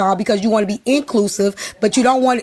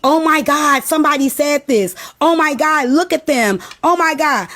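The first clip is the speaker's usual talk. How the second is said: a hint of fretful mockery, raised a little; mocking panicked voice. Mocking a bothered crowd, lightly hammed-up fretting. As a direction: lightly play a bothered person gasping oh my God. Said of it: "Y'all be".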